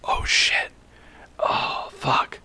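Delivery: hushed, breathy gasp of a stunned crowd; shocked whisper. Retold or imitated. Townsfolk watching an elf threaten an elf, shocked whisper. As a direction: whisper it like onlookers who can't believe it. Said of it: "everyone's like".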